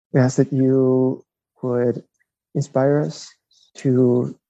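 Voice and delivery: slow spoken closing prayer. Real, not acted. Friar closing the interview in prayer, slow earnest. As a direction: pray earnestly for the listeners.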